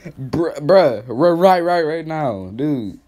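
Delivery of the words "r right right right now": mock stutter. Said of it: "You sound like Jay".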